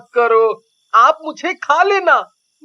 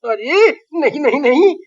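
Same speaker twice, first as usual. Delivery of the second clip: protesting; 3 semitones lower than usual. Acted. Chilli denies fooling the witch.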